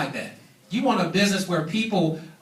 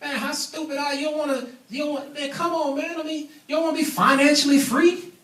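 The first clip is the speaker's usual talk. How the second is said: high-pitched, scornful disbelief, imitated; mock put-down; 8 semitones higher than usual. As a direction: act out someone belittling a clueless friend. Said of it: "kinda put me down and said".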